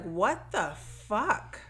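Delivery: drawn-out, incredulous question; mock disbelief. Podcaster voices the family reacting to the stabbing, drawn-out disbelief. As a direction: stretch each word in mock shock.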